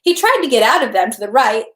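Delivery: steady audiobook narration; story narration. Acted. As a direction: read the novel evenly aloud. Reads the novel aloud.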